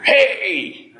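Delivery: sharp high shouted hey; retold yell. Stranger yelling at preacher over his bag. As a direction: yell it right in his ear. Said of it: "I hear this yell".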